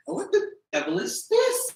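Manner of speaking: high, slow theatrical indignation; mock old-timey outrage. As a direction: ham up a shocked old gentleman. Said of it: "I fucking miss how students just".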